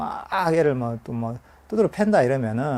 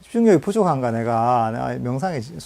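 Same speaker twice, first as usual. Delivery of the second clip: frustrated self-doubt; 3 semitones higher, 8 dB louder than usual. Retold or imitated. Meditator fretting at their own wandering mind, frustrated and loud. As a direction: whine at yourself for failing to focus. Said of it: "이렇게 하면서 마음속에서 불만족감을".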